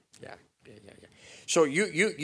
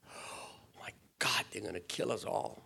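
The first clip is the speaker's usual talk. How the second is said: hushed, scared whisper; frightened whisper; 7 dB quieter than usual. Retold or imitated. Servant whispering in fear to the prophet. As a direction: breathe it out in panic.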